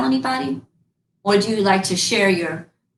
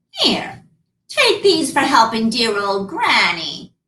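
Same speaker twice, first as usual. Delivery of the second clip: put-on old beggar woman; slower than usual. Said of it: "she said".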